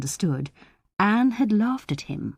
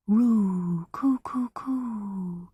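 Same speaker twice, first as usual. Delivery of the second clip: dove cooing; 3 semitones higher, much slower than usual. A narrator's reading. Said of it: "came again".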